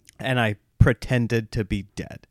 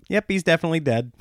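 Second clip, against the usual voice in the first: put-on quick, higher matter-of-fact kid verdict; imitating kid; 5 semitones higher, faster than usual. Son declaring dad dead. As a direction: rattle it off like a small doctor. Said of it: "I hear him go".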